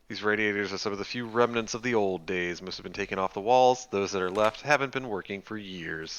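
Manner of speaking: narrator voice. Acted. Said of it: "I like your narrator voice".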